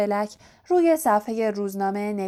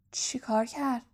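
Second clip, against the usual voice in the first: breathy unvoiced whisper, much softer; whispered echo; 7 dB quieter than usual. Whispering back the question about Black. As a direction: hush it like a secret.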